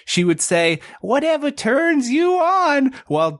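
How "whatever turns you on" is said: teacher's New York drawl, high and slow; high, slow New York teacher impression; New York accent. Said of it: "she said it in this New York accent".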